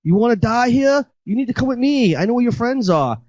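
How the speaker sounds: put-on high-pitched take on an Asian accent; imitated Asian woman's accent. Asian woman warning the lost guy, high imitated accent. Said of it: "I'm not trying to do an accent".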